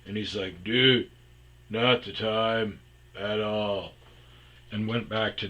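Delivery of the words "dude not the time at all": Napoleon Dynamite voice. Retold or imitated. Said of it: "Matt talks like Napoleon Dynamite".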